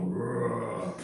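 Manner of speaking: growled roar; a menacing devil's roar; mock devil growl. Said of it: "They always sound like a".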